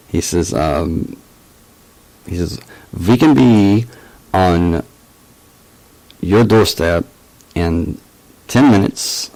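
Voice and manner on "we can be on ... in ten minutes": halting mock German accent, punched openings. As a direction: amateurish imitation of a German-accented agent. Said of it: "gonna stop the German accent".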